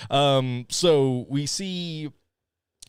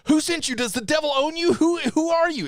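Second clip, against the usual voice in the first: higher, louder mock intense questioning; intense interrogation; 4 dB louder than usual. Mocking the hero grilling the woman, intense. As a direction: demand answers like he's frantic. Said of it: "This is literally how he says it".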